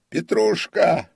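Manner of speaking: loud, high-pitched yell of a name; shout. A narrator's reading. Comic calls another servant in the dark, shouting. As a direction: call out urgently at full voice. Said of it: "крикнул он".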